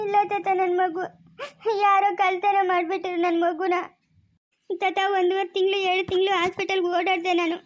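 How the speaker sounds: tearful account broken by sobs. Acted. Mother tells the elder her baby was stolen, tearful. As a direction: tell it through tears.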